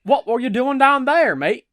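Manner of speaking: high, loud attempt at a British accent. The speaker asks Harry again, loud, British accent attempt. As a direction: try the London conductor now. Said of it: "I should probably have, like, a British accent".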